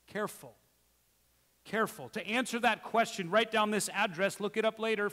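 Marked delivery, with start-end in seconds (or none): 0.1-0.6 quiet, hushed caution; soft warning. Real, not acted. Pastor cautioning his congregation, quiet. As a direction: ease the word down gently.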